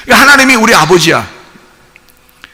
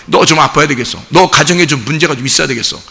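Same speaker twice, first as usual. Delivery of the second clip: devil taunting; 5 semitones lower, 4 dB quieter, faster than usual. Retold or imitated. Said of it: "이렇게 딱 우리한테 얘기할 때가".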